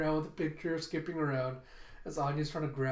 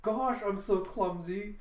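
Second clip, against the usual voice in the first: higher-pitched mock dismay; fake casual oops; 5 semitones higher than usual. Schoolgirl pretending to drop a photo by accident, fake casual oops. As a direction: act out a feigned accident. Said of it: "pretends to casually drop".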